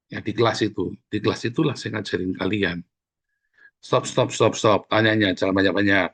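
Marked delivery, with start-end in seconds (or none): 3.8-6.1 brisk classroom halt, repeated stop stop; firm teacher stop. Shown as a demonstration. Teacher stopping students from asking too many questions, firm and brisk. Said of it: "tak tegur ya".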